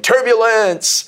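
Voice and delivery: high, slow, stretched yell of "Turbulence"; mock yell. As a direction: shout it out as you leap, drawn out. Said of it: "I jumped off yelling".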